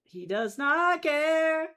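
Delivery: slow, punched does not care; emphatic. Pretend. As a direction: spell it out word by word. Gushing about character's attitude.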